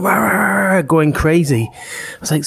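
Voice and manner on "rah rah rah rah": dog barking. Retold or imitated. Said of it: "it's going".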